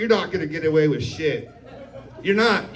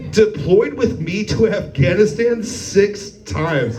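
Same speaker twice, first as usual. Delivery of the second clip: catty; slower than usual. Retold or imitated. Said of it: "He was catty right back".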